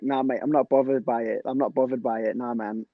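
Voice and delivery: imitating a teammate's English accent; retold English-accent brush-off. Teammate refusing technical drills, in a mock English accent. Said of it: "in his English accent".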